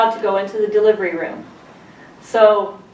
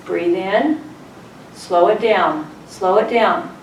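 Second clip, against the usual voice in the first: calming nurse; slower than usual. Retold or imitated. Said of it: "She put her arm around me".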